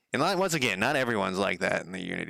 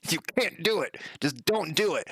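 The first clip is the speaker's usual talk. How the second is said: much higher, mocking know-it-all voice; mocking the forum guy; 8 semitones higher than usual. Retelling a forum commenter's blunt answer to him, mocking high voice. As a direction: parrot him back in a high, scornful squeak. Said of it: "he was just like".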